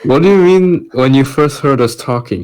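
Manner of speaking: ordinary delivery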